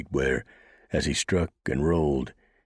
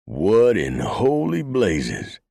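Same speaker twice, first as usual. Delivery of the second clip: roaring; 6 semitones higher, 6 dB louder, much slower than usual. A narrator's reading. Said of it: "Mannion fairly roared".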